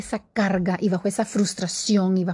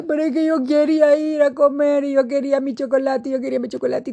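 lightly voiced crying child, higher; a hint of a sulky kid begging; whining child; 5 semitones higher, faster than usual. Child crying to mom for chocolate, mild whine. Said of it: "el niño que está llorando y dice".

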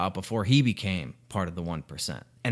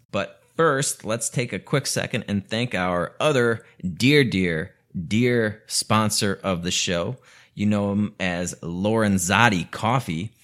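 louder, upbeat ad read for the coffee sponsor; 4 dB louder than usual. Acted. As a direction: sell the coffee like a host-read ad. Reads the sponsor ad.

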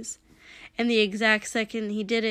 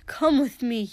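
urgent pleading; 2 semitones higher, 4 dB louder than usual. Acted. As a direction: repeat it louder, begging. Pleading with his brother.

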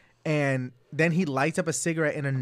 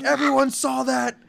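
put-on higher, louder drunk insistence; drunk friend; 10 semitones higher, 5 dB louder than usual. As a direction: insist to the whole bar, drunk. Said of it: "He's like".

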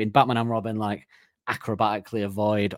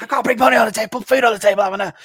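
high pleading voice; 12 semitones higher, 7 dB louder, much faster than usual. Retold or imitated. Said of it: "He's like".

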